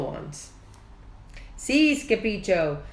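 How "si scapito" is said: panting. Acted. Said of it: "panted Poquito Tito".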